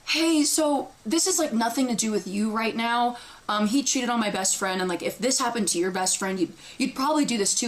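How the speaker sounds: suddenly reasonable, dropping out of the mock scream; moment of clarity. Pausing the rant to explain to the girl, retold calm clarity. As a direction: settle into an even, explanatory aside. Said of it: "in my clarity".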